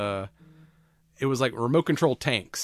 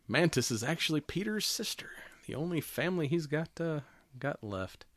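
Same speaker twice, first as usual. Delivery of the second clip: whispered reveal, much softer; dramatic whisper; 5 semitones higher, 6 dB quieter than usual. Retold or imitated. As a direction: hush it like a secret.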